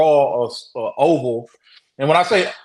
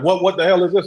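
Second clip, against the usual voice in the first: higher-pitched retold fright; scared; 5 semitones higher, 3 dB louder, faster than usual. Friend handed the glasses, retold as scared. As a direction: imitate a scared friend, stumbling on the first word. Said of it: "like, scared".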